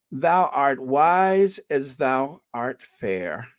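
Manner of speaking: slow, drawn-out, even reading of "Thou art wise as thou art fair"; slow first read. Shown as a demonstration. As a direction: read it out slowly, weighing each word. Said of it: "how do they say that?".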